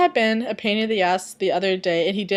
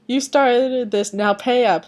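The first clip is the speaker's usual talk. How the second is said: with a smile; 4 semitones higher, 5 dB louder, slower than usual. Acted. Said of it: "Sebastian said with a smile".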